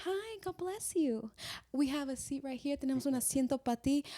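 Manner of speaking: a courteous usher showing you a seat; polite reserved welcome. Retold or imitated. Saludo en iglesia americana. (saludo cortés y contenido, lento y suave)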